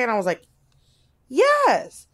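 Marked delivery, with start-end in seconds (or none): 1.3-2.1 squeaky yes. Retold or imitated. Admitting drinking to piercer.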